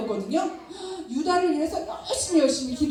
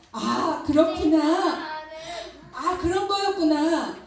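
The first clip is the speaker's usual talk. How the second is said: joyful realization; 3 semitones higher than usual. Acted. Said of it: "마음에 기쁨이 넘쳐났어요".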